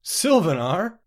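high, loud incredulous question; a touch of derision, rising sharply at the end; mock amusement. A narrator's reading. Hidden voice mocks the traveler's destination, amused. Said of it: "the voice laughed".

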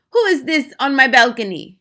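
loud, high indignant question; irritated witch. A narrator's reading. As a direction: demand to know who is intruding. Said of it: "she muttered".

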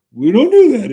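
firm contrast, punch it out; insisting the locals do it differently; emphatic. Real, not acted. Contrasting with California.

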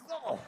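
high recoiling groan; mock recoil from bad breath; disgusted oh. Reacts to verbal bad breath.

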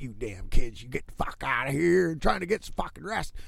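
lightly voiced cranky old geezer yelling at kids; a hint of an old man shaking a broom at the kids; grumpy old man. Vlogger mimics a grumpy old man scolding noisy kids, lightly voiced. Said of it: "I sound like the grumpy old fucking bastard with the old fucking broom being like".

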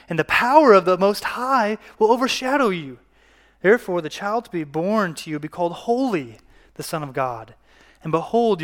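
expressive, emphatic public scripture reading. A narrator's reading. Preacher reading Luke one to the congregation, scripture reading. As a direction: read the Bible passage aloud to a congregation.

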